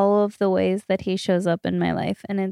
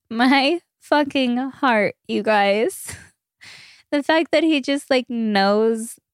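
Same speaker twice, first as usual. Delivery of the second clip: touched, higher-pitched gush, drawn out at the start; emotional gushing; 4 semitones higher, slower than usual. Real, not acted. Telling listeners how well her partner knows her, emotional gushing. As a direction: let the feeling lift your voice. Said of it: "I'm gonna get emotional".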